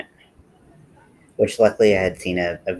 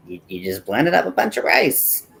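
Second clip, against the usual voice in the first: mock exasperation; 8 semitones higher, 4 dB louder than usual. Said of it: "She was just like".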